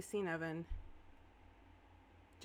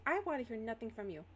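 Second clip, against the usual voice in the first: higher-pitched teacher's reprimand; stern cut-off; 4 semitones higher than usual. Acted. Teacher silencing a student's excuse, stern. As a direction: shut the student down.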